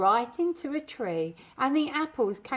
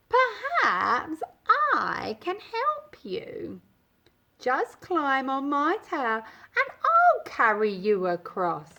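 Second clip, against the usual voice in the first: sly fox. Acted. Fox tempting the cookie.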